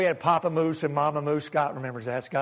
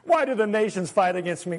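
mocking laugh. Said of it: "This is a laugh of mocking".

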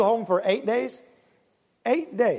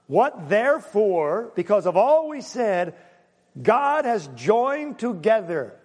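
slow scripture reading; slower than usual. Acted.

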